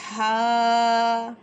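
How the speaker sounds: ہا breathed from the throat; a throaty ہا. Shown as a demonstration. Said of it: "ہا کو ہم نے حلق میں سے پڑھنا ہے".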